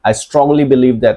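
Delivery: slow model phrase. Shown as a demonstration. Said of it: "model debate phrase".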